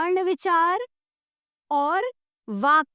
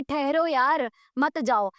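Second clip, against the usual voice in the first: to a dear friend; 3 semitones lower, slower than usual. Acted. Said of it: "ये मैं किसी प्यारे से दोस्त को कह रही हूँ".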